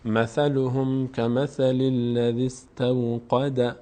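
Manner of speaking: slow, drawn-out Quran recitation; teacher modelling the verse for students. Shown as a demonstration. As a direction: chant it slowly, word by word.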